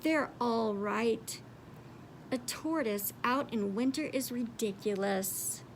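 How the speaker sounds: understated tearful sigh. Acted. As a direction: give in with a tear. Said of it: "a tear trickled down her face".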